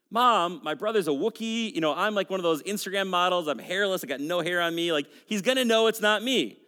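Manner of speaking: lightly acted protest to a parent; protesting son. Son objecting to his mother's plan, lightly exasperated. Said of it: "She's like".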